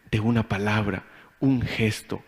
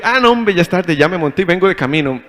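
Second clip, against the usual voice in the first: fake excuse; 4 semitones higher, 5 dB louder than usual. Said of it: "me llama y me dice".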